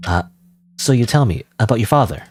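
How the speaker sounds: put-on low, sullen teenage girl; moody teen girl voice. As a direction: clip the lines like a bored rebellious teen.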